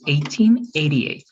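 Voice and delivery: "Eighteen eighty-eight" said slowly, each number clear; slow model year. Shown as a demonstration. Teacher models the year for Joanna, slowly. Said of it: "One more time, please".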